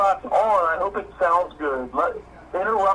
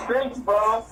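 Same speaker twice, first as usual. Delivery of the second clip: much higher, laughing with joy; excited; 12 semitones higher, much slower than usual. Real, not acted. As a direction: burst out in real excitement. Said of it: "I get so excited".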